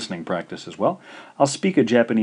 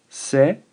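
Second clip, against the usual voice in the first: se, ka, i with long pauses; high, loud se, then separate ka and i; syllable by syllable; 6 semitones higher, 7 dB louder than usual. Shown as a demonstration. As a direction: dictate se-ka-i in three beats. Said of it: "This is three syllables".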